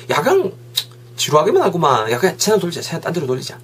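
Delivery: bored complaint. Acted. Same bored friend in Korean.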